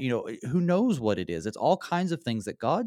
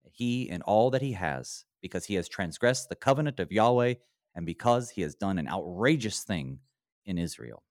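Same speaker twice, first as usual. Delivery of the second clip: ordinary delivery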